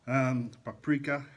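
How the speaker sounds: paprika said slowly and carefully, PAP-ri-ka; slow deliberate paprika, every syllable clear. Real, not acted. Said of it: "I can't say words properly".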